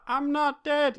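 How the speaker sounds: high laughing squeal. Retold or imitated. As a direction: laugh it out while falling. Gandalf falling, laughing.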